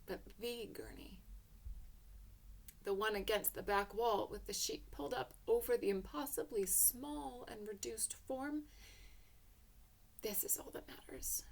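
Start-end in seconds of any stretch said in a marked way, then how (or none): 0.0-1.2 a soft whispered pause. A narrator's reading. Hushed focus on the child's gurney. 10.2-11.4 soft, heavy whisper. A narrator's reading. Hushed focus on the child's gurney.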